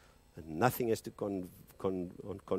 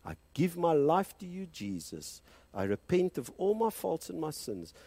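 closing prayer. Acted. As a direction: lead the congregation gently into prayer.

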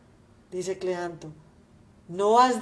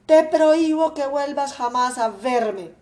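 a raised, indignant father's voice, a touch higher; angry father; 4 semitones higher, 4 dB louder than usual. Acted. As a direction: scold the son and forbid his return. Padre furioso repudia al hijo. (padre indignado, voz algo más alta)

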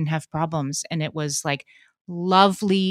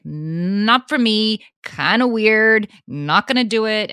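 slow dismissive; 4 semitones higher, 4 dB louder, slower than usual. Retold or imitated. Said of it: "I, like".

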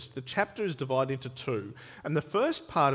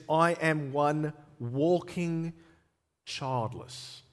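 nomad's lament; much slower than usual. Acted. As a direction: speak it as a weary desert nomad. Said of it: "on the voice of a nomad".

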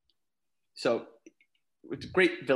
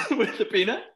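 laughing; 5 semitones higher, 3 dB louder than usual. Real, not acted. Telling the peanut kill, laughing.

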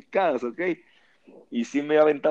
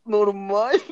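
retold protest; 7 semitones higher than usual.

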